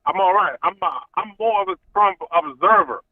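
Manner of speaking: muffled bluetooth phone audio; bluetooth headset mic. Real, not acted. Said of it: "are you on Bluetooth?".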